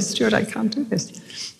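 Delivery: slow, soft protest to husband; soft pleading. Retold or imitated. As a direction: plead quietly that you can't.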